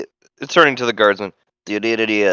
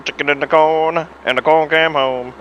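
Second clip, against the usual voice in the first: put-on southern accent; 3 semitones higher than usual. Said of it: "the southern accent works with this robot voice".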